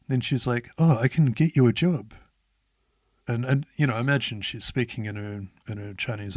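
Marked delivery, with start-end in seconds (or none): 0.8-2.1 imitated old lady pushing an offer, louder; mildly demanding old lady. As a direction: lightly mimic her loud insistence. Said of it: "coming across very hard to understand and very demanding".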